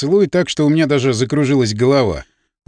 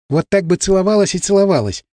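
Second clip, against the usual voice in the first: slightly out of breath. A narrator's reading. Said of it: "слегка задыхаясь".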